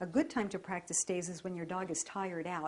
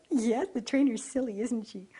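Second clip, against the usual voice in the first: higher, louder playful talk; playful voice for the dog; playful silly; 3 semitones higher, 6 dB louder than usual. Real, not acted.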